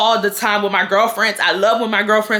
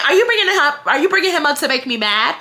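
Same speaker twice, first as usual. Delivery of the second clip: accusing; 5 semitones higher, faster than usual. Retold or imitated. Friend accusing, high pitched.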